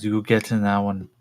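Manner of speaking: lightly voiced alien creature; a hint of creature voice; modified American. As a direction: order them about with a slight alien accent. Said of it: "in kind of that modified American".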